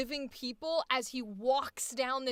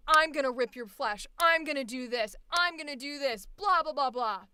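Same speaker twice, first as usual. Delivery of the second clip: mock rage read; 5 dB louder than usual. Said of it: "everybody's instinct when they do this piece is to be very like".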